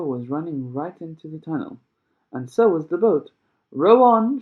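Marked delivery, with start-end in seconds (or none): 3.7-4.4 high, loud call to the rowers; shouted. A narrator's reading. Mister Wonka urging the rowers into the tunnel, shouting. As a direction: bellow it out, much higher and louder. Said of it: "shouted Mister Wonka".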